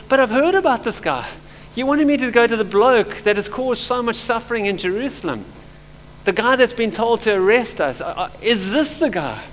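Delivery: retold disbelief, voice lifted in protest; imitated shock. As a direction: act out a stunned objection, starting high and easing off. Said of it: "in, in, in shock".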